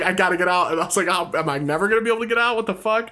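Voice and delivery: lightly acted frantic desperation; retold panic. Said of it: "I freaked out".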